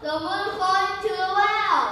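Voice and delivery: high surprised cry-out; older monkey crying out in surprise. Acted. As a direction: gasp it out in shock. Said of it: "very surprised as well and cries out".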